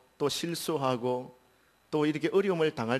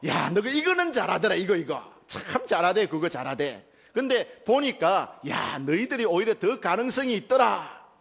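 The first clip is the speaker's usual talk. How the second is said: put-on high, loud, eager praise for the children; a coach lifting up disappointed kids; praising encouragement; 5 semitones higher, 3 dB louder than usual. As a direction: cheer the losing team on with delight. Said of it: "칭찬하고 격려합니다".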